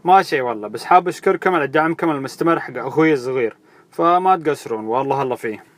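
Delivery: loud brash big-brother persona; Zabi Al Arab. Acted. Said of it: "معاكم زابي العرب، أخو ماكس".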